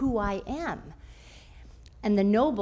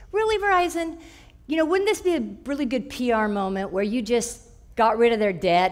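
sarcastic thought. Retold or imitated. Indignant inner thought at Verizon.

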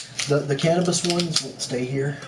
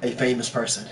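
announcer voice. Pretend. Grand introduction.

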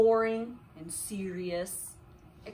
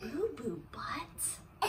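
laughing; 9 dB quieter, much slower than usual. Real, not acted. Incredulous, laughing repeat.

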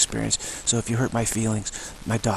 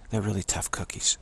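whisper; 5 dB quieter than usual. Real, not acted. Marvelling at birds.

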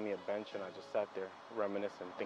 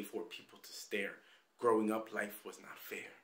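spoken-word poem. Acted. Praying to God over a broken childhood, spoken-word poem. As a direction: recite it as a pleading, confessional poem.

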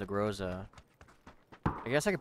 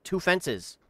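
excited callout; 4 semitones higher, 6 dB louder than usual. Real, not acted. Spotting enemies, excited callout.

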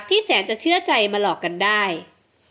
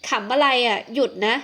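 curt voice. Acted. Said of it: "อินชมพูเสียงห้วน".

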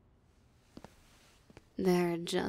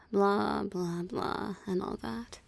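bored, dismissive recital; dismissive mockery. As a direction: wave away a tiresome lecture. Mocking the hunter's moral lecture.

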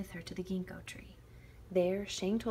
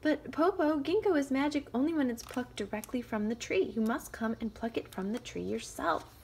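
loud, high call; calling down slyly; 6 semitones higher, 8 dB louder than usual. Acted. Shang luring the wolf, calling. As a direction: tempt him from above. Girl tricks wolf from tree.

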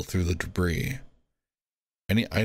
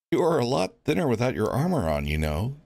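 lightly voiced Elvin; 5 semitones higher than usual. Elvin teasing his friend.

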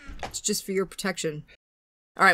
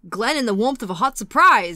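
bad Freddy Krueger voice; 6 dB louder than usual. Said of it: "that was a terrible Freddy impression".

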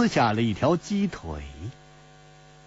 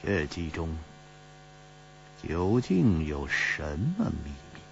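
murmuring; 5 semitones lower, 6 dB quieter than usual. A narrator's reading. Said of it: "喃喃地说".

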